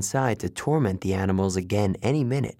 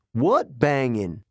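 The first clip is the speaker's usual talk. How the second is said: drawn-out indignant question; slow, lightly acted yell; slower than usual. Eddie outside answering Maurice, baffled yelling. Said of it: "Eddie yelled".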